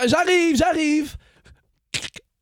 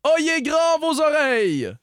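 lightly voiced town crier proclaiming; a hint of a medieval herald reading a decree; royal herald.

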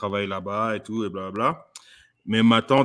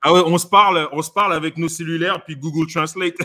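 amused burst; 5 semitones higher, 6 dB louder than usual. Real, not acted. Laughing about cousin.

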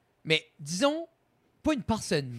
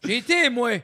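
put-on louder, higher old hick Quebec accent bragging; rural Quebec hick accent; 6 semitones higher, 6 dB louder than usual. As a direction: brag like an old backwoods Quebec guy. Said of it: "mon accent de colon". (accent de colon québécois, un peu plus fort)

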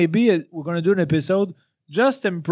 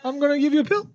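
high, airy deadpan menace imitating him; mock detached killer; 6 semitones higher, 3 dB quieter, faster than usual. Friend mocks his detached killer tone, high and airy. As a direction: impersonate his calm murderer voice lightly. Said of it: "tu parles tout le temps sur ce ton-là".

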